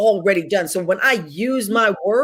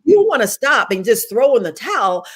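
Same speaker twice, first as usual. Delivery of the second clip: higher, faster self-pitying complaint with a catch; mock pity party whine; 5 semitones higher than usual. Mocking the listener's own self-pity, a tearful whine. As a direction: whine like you're ready to quit. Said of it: "we wanna have this pity party".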